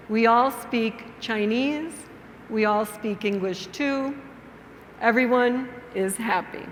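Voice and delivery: measured storytelling with clear pauses; story for beginners. Shown as a demonstration. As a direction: tell it simply, phrase by phrase, for language learners.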